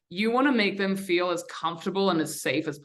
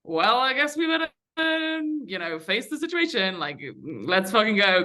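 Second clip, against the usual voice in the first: mock-resigned, pitched up then settling; eye-rolling resignation; 4 semitones higher than usual. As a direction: roll your eyes through it, starting high.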